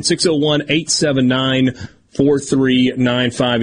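slow and deliberate, digit by digit; slow dictation. Real, not acted. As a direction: spell out the number slowly. Reading out the text line number.

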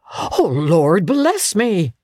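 slow, stunned cry of surprise; breathless astonishment. Acted. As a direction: gasp it out as if the breath were knocked away. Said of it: "cried the gentleman, as if his breath were taken away".

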